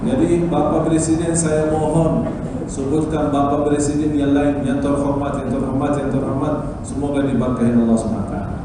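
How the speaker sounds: Indonesian with an Arabic accent; foreigner speaking indonesian. Real, not acted. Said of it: "saya masih belajar bahasa Indonesia". (bahasa Indonesia berlogat Arab)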